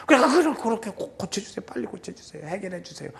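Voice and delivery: acted hushed supplication; intercessory prayer. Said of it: "저도 막 그렇게 중보기도 해요".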